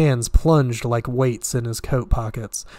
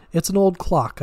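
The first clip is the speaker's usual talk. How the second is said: idiotically; 6 semitones higher than usual. A narrator's reading.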